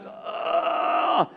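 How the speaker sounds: drawn-out "uhh" of being at a loss; dumbfounded groan. Retold or imitated. Retelling a man lost for an answer, dumbfounded groan. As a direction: imitate a man stuck for words. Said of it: "I was so dumbfounded in the moment".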